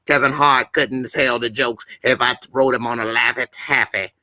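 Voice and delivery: cocky comedian patter; lightly put-on hustler comic, boastful; Cat Williams impression. Demonstrating the impression by bragging over a rival, cocky. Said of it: "So when I do my Cat Williams".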